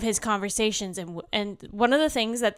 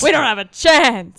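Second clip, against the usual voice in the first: laughing mock Russian spy; 4 semitones higher, 12 dB louder than usual. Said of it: "echoing the spy line".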